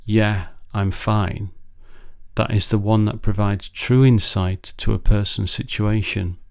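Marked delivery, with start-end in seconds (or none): 0.0-1.5 "Yeah, I'm fine" drawn out slowly and quietly; a hollow, slow "Yeah, I'm fine"; slow quiet brush-off. Shown as a demonstration. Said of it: "it's not the first, "Yeah, I'm fine".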